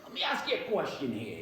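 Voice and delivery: low, soft, bad detective impression; terrible Columbo. Detective showing up to ask questions, badly faked rumpled voice. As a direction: badly imitate a shambling TV detective. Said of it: "very terrible impression of Columbo".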